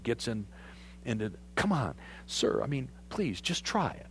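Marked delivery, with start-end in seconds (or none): 1.5-4.1 coaxing. Retold or imitated. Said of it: "All of his guys coaxing him".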